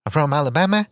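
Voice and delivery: mock Alabama accent, lightly sung, rising at the end; a clumsy sing-song imitation of an Alabama accent; Apology Man's bad Alabama accent. Host imitating a guest's terrible Alabama accent, sing-song. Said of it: "He sounded like he was singing".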